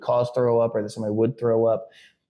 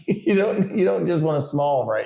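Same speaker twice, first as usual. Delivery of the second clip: retold teasing protest, pitched up at first; mock disbelief; 5 semitones higher than usual. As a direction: playfully talk a kid out of it. Dad retells his joking disbelief.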